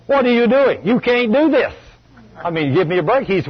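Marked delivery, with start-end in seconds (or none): 0.1-1.7 retold disbelief, pitched well up; incredulous husband. Husband to wife dancing on her healed foot, incredulous. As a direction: protest in high-pitched, mock astonishment.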